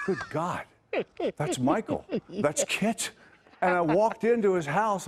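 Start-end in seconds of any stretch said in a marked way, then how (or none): 0.1-3.1 higher, amazed recognition; retold astonishment. Actor retelling how he recognized the car's voice, astonished. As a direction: build to a thrilled realization. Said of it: "And I went".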